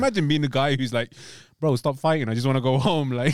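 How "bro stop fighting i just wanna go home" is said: raised, louder appeal to squabbling drivers; half-acted weary protest, pushed louder; mock exasperated plea. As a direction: plead like a fed-up passenger. Acting fed-up passenger amid cabbies' fight.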